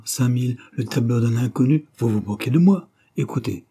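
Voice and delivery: a dealer pushing a buyer, mock-insistent; mock dealer's pitch. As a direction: sell it hard like a slick dealer. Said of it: "se mit à jouer la scène".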